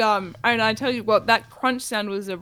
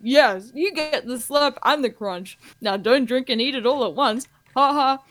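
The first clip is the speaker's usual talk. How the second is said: radio ad spokesperson; 4 semitones higher, 4 dB louder than usual. Acted. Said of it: "two people in conversation".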